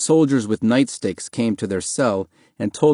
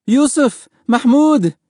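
loud, very high mother's call; crying out; 6 dB louder, slower than usual. A narrator's reading. Mother seeing husband and son from her cell, crying out. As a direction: call out desperately to your family. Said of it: "Mahmoud's mother cried".

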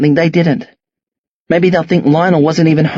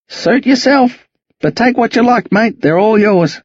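put-on old Aussie bloke; 5 semitones higher than usual. Jack's generous offer.

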